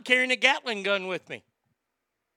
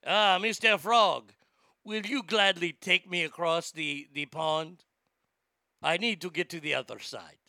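put-on French accent; 3 semitones lower than usual. Scorpion begging a ride across the pond, mock French accent. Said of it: "I'm making the scorpion sound French".

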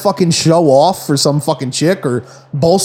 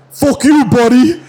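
a mock yelled taunt, higher; imitating a parting jab; retold taunt; 6 semitones higher, slower than usual. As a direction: throw it back with a sneer, mildly mocking. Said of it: "turns around and says".

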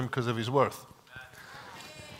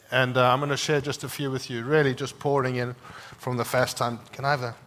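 talking while chewing gum; words round a wad of gum; 5 dB louder than usual. Real, not acted. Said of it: "I got gum in my mouth".

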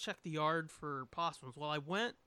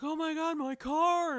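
upset lady voice; 10 semitones higher, 7 dB louder than usual. Retold or imitated.

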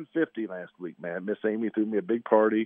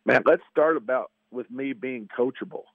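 hoarse voice; 2 semitones higher than usual. Real, not acted. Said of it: "I got this whiskey tenor, nasaled out voice".

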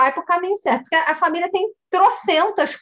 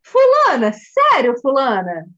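mock reproach to mother; 4 dB louder, much slower than usual. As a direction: call her out in playful disbelief. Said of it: "Fiz assim pra ela".

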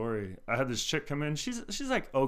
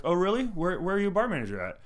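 higher-pitched, mock-surprised questioning; mock interest; 7 semitones higher, 4 dB louder than usual. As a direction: play up the doubtful "oh, really?". Retold sceptical questioning of customer.

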